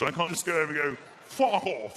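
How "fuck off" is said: posh English "fuck off"; posh push-off. Acted. Posh non-fighter shoving an intruder, posh accent. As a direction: feeble posh attempt at menace. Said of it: "the Waitrose posh push".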